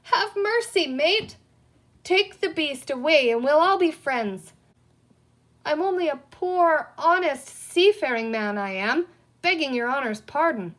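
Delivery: high, loud begging pirate; a cowering pirate begs the boy for mercy; pleading in terror. A narrator's reading. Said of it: "He looked so absolutely terrified".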